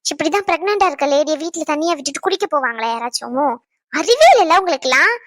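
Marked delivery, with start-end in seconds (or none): 3.9-5.1 scolding. Acted. Wife scolds husband over drinking.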